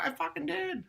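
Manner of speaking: high, strained mock protest; hammed-up insisting; mock exasperated outburst. Insisting to his girlfriend in retold fight, mock.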